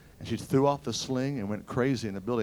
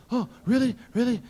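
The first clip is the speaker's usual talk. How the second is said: surprised; 9 semitones higher than usual. Retold or imitated. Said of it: "he goes".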